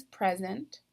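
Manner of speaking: "present" said PREZ-ent; stress on first syllable. Shown as a demonstration. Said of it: "stressed or accented syllable is the first".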